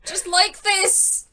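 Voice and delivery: high, loud laughing yells; laughing shout. Real, not acted. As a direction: shout through helpless laughter. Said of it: "I'm laughing".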